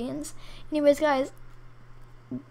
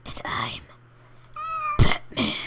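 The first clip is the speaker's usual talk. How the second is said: Batman joke. Pretend.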